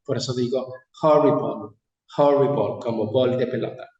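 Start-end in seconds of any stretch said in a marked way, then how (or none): 1.0-1.8 "horrible" with its ending said "bol", like a ball; -ble said as -bol. Shown as a demonstration. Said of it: "se pronuncia O L". 2.2-2.8 "horrible" with its ending said "bol", like a ball; -ble said as -bol. Shown as a demonstration. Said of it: "se pronuncia O L".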